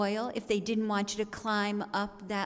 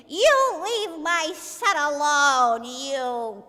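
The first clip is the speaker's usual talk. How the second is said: teacher defending her son from bullies; furious mother; 5 dB louder, much slower than usual. Retold or imitated. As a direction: spit it out like an enraged mother. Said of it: "pull his door open and say".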